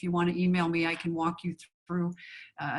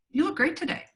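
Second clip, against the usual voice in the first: "You look great today" with "look" lifted much higher; bright high reading; 8 semitones higher, faster than usual. Shown as a demonstration. Actress showing casting director a choice, said much higher. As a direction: pitch "look" way up, eager and delighted. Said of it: "I could say".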